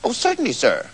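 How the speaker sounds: softly voiced, meek little man; little old man. A narrator's reading. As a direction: answer softly and obligingly. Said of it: "said the man".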